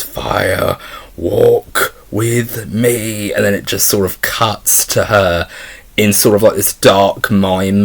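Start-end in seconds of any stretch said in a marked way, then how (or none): 0.0-3.3 very slow, drawn-out eerie line; haunting whisper-quote. Retold or imitated. Reviewer quoting Laura clutching a man, slow and eerie. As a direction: stretch each word like a ghostly warning. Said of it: "she literally grabs hold of him and she goes".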